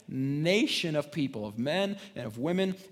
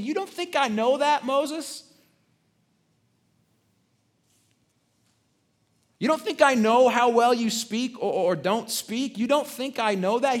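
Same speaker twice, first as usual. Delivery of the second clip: higher, louder, rising rebuke; God questioning Moses, higher and louder; God's voice; 8 semitones higher, 4 dB louder than usual. Retold or imitated. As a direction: speak as the Lord challenging Moses. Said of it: "He's saying".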